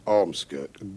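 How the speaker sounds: "Ormskirk" spat out short and hard; staccato Ormskirk. Shown as a demonstration. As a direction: hit "Ormskirk" like a drumbeat. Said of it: "it's staccato".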